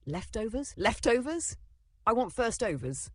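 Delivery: high, pleading excited voice; eager begging. Acted. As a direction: beg for leftovers like a hungry kid. Eager child begging for food.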